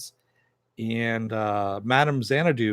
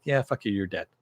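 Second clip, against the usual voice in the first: dismissive. Retold or imitated.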